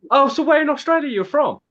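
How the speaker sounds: a touch of an American tourist voice; mocking Americans. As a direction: lightly mimic a curious American. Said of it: "I kept having".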